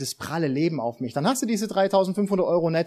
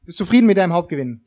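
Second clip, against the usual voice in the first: game show host; 4 semitones higher, 5 dB louder than usual. Pretend. Mock winner interview.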